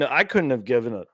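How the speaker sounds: burp mid-sentence; talking through a burp. Real, not acted. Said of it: "excuse me, I'm burping over here".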